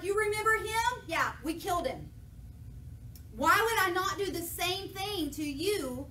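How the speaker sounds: mock furious king; angry rebuke. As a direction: tear into them. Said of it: "David's furious".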